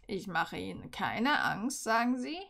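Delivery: lightly voiced dark professor. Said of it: "begann er mit dunkler Stimme".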